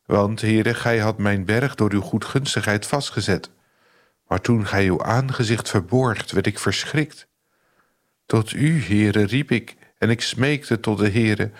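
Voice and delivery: measured, solemn Bible reading voice; solemn scripture reading. Acted. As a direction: devotional radio reading of a psalm. Reads Psalm thirty aloud.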